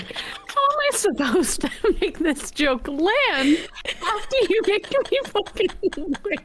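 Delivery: high squeaky laughing rant; laughing outrage. Acted. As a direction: rant while cracking up. Mock outrage at friend.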